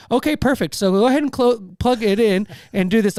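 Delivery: put-on chirpy scripted helpdesk voice without the accent; mock support agent. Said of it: "I'm gonna not do the accent".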